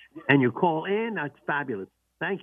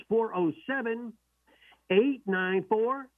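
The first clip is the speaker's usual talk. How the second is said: slow, clear number read; 6 semitones higher, slower than usual. Shown as a demonstration. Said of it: "Let me repeat that nice and slow".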